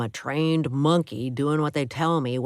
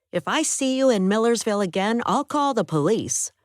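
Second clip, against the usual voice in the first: higher woman's voice, scolding; angry woman; 7 semitones higher, 4 dB louder than usual. Acted. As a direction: voice her higher, hurt and furious. Woman threatens the roommate.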